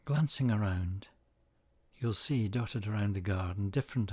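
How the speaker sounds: calm, measured meditation voice with long pauses; unhurried phrases, each left to settle; guided meditation. Acted. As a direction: guide listeners gently into the image, leaving space between phrases.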